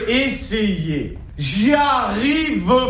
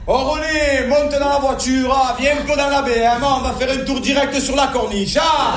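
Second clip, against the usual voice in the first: put-on Marseille accent; 3 semitones higher than usual. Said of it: "Alors qu'avec l'accent".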